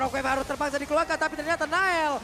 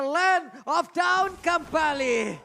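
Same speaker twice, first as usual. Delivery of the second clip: excited announcer; 5 dB louder, much slower than usual. Real, not acted. Caster hypes return to match.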